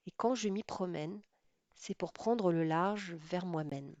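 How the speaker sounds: measured poem recital, pausing between lines; understated literary reading aloud. Real, not acted. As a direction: read the verse aloud, each line set apart. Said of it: "je lis".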